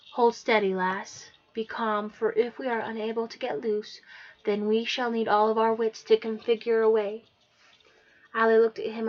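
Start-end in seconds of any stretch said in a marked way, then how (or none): 0.1-7.2 hero's voice. Acted. Scottish hero Aiden speaks.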